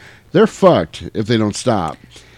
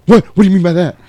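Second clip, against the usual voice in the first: mildly startled reply, pitched up; taken aback; 9 semitones higher, 7 dB louder, faster than usual. Retold or imitated. Star answers a guy's jab about her parents, taken aback. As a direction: ask it louder and higher, as if caught out.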